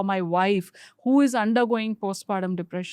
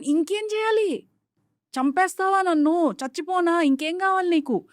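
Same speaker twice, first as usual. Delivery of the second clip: higher, pleading, worn-out disbelief; exasperated husband; 4 semitones higher, faster than usual. Retold or imitated. Husband ranting at wife after giving everything, exasperated. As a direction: throw up your hands, what more can I do.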